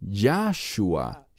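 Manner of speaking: Yahshua with the first syllable Yah drawn out and stressed, slowly. Shown as a demonstration. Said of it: "y enfatizan la sílaba Ya".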